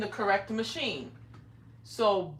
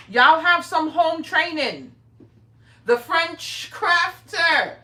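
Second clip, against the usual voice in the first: slow, loud, higher schoolteacher scold; mock teacher scolding; 4 semitones higher, 8 dB louder, much slower than usual. To misbehaving chat regulars, a mock teacher's slow scold. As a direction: play the strict teacher calling out the class.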